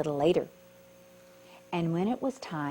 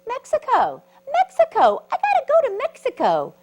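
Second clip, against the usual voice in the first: excited shout; 11 dB louder than usual. Acted. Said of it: "bug answers excitedly".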